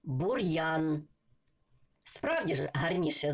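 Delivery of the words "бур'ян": бур'ян with a hard р, then a clear y-glide; hard р, separate "yan" in бур'ян; with apostrophe. Shown as a demonstration. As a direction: break бур'ян into "bur-yan". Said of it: "Ще раз".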